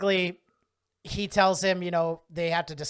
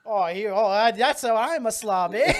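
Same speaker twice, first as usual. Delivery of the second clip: mock outraged shout, louder and higher; freaking out; 4 semitones higher, 6 dB louder than usual. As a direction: ham up a furious comeback. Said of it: "Freaking out".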